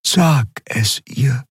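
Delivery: langsam, höher, eindringlich bittend; Xea, sanft drängend. A narrator's reading. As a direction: bitte ihn sanft, es zu sagen. (Xea drängt Kero langsam und leise)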